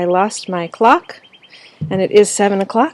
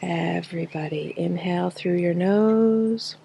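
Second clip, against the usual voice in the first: guided breathing; 6 dB quieter than usual. Real, not acted. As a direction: lead them gently through each breath, drawing out the words. Leads breathing exercise.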